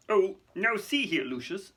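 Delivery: high, slow protest; alarmed. Acted. Fudge protesting to Lucius, alarmed. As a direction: object in flustered alarm. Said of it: "said Fudge, looking alarmed".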